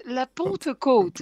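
Pentecôte drawn out slowly in a Parisian accent; slow, careful Parisian accent on Pentecôte. Shown as a demonstration. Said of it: "je vais essayer de le dire à la parigote".

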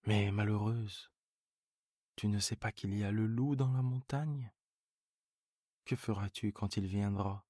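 scare her with the wolf story; alarmed old farmer. Acted. Seguin warns goat of wolf.

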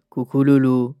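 low, loud raspy smoker; smoker's voice. Pretend. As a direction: play a chain-smoking lady. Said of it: "j'ai une voix de fumeuse".

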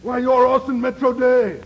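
surprised recognition. Acted. Actor recognizes producer in disguise.

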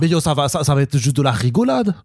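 fan's rant in a fake Alsatian accent; mock Alsatian accent, sliding from Quebec; botched Alsatian accent. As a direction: grumble about the film in hammy Alsatian French. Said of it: "ça part en accent alsacien".

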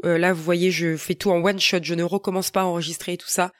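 talking with a blocked nose; blocked nose from a cold; stuffy nose. Real, not acted. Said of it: "m'entendre parler avec le nez bouché".

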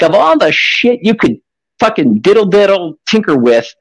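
ordinary talk, nothing marked

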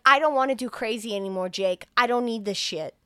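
put-on ranting as the fed-up girlfriend; mock angry girlfriend. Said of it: "She's like".

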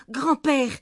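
put-on high, loud child's call to grandfather; excited little girl. A narrator's reading. Granddaughter bursting with news for her grandfather, excited high voice. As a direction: call out eagerly in a high girl's voice.

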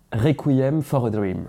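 slow, careful English accent on the title. Shown as a demonstration. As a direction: say the title like a native English speaker. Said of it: "avec l'accent".

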